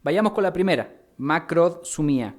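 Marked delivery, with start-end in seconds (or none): 1.2-2.3 macrosumía drawn out slowly with the D sound; careful teaching pronunciation. Shown as a demonstration. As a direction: say macrosumía slowly so they learn it. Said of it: "con K". (macrosumía dicha despacio, con la D)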